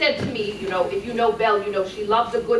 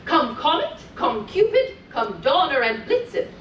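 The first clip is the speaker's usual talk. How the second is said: put-on lilting read-aloud for small children; sing-song storytelling voice; storybook reading; 3 semitones higher than usual. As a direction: read it like a bedtime story to little ones. Reading continues.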